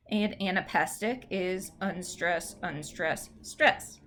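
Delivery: weak, weak, then a strong stress; demonstrating the rhythm. Shown as a demonstration. Teacher modelling anapestic rhythm, building to the stress. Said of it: "You do need to know these".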